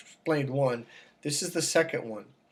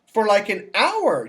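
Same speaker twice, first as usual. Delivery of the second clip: insistent vet; 8 semitones higher than usual. Retold or imitated. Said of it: "He goes".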